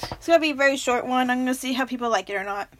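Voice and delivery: quick, rushed chatter; talking too fast. Real, not acted. Vlogger who drank too much coffee, talking too fast. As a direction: rattle it off fast. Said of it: "I'm sorry I'm talking too fast".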